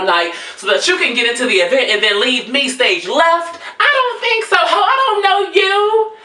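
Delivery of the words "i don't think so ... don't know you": high-pitched, indignant brush-off; indignant refusal. Acted.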